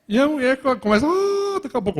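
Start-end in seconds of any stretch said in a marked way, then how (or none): 1.1-2.0 imitating the pastor's thin high voice, much higher; a squeaky high mock note. Mimicking pastor Nádia's first voice, much higher. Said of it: "aquela voz fina".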